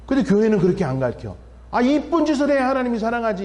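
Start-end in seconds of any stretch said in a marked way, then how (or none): 1.7-3.5 mock preachy voice. Mocking church teaching children.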